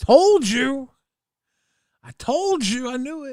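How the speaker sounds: high sing-song gloat. Real, not acted. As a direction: crow about being right. Gloating after being right.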